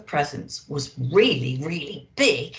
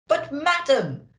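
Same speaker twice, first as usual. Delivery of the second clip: blustering Santa; 8 semitones higher than usual. Acted. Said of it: "Santa blustered".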